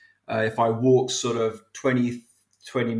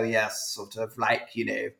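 posh British accent; 2 semitones lower, 6 dB quieter than usual. Shown as a demonstration. Guest showing his old private-school voice, posh British accent. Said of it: "Prince Charles type accent".

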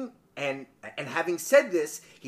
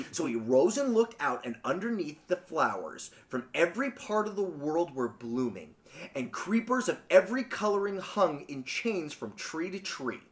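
story narration; 2 semitones lower, 6 dB quieter than usual. A narrator's reading. Podcaster telling how the hill vanished, story narration. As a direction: read the tale quietly and evenly.

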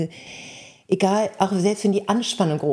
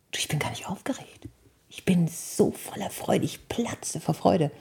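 whispered, slowing joy; soft whisper; 4 dB quieter than usual. Retold or imitated. Told to her director.

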